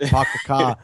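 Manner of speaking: a hint of Boston, dropping the R in "Park the car"; host teasing a guest from Boston in a light Boston accent; mock Boston accent. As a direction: say "Park the car" as "Pahk the cah", Boston style. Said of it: "do you have a Boston accent".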